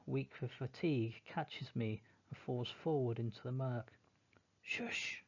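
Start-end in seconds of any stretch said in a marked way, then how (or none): 4.6-5.2 sharp whisper; whispered shush. Acted. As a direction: hush them in a whisper. Hushing to listen.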